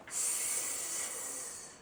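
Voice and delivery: soft long hiss; quiet snake hiss. Shown as a demonstration. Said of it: "hiss like a snake".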